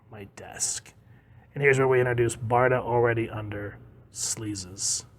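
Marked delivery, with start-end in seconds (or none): 0.1-0.9 low, very soft aside; muted grumble. Acted. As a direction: drop it low and quiet. Callback to desk, muttered as aside.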